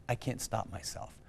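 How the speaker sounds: a quiet, defeated echo; quiet despair. Retold or imitated. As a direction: say it again quietly, giving up. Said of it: "And in tears on the phone".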